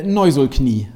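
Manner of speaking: slowly sounding out Neusulknie, Inklusion reversed; backwards speech. Shown as a demonstration. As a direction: read Neusulknie syllable by syllable, slowly. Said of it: "heißt Inklusion rückwärts gesprochen".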